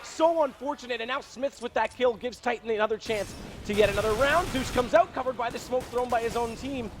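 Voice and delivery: excited play-by-play. Real, not acted. Fast action round caster.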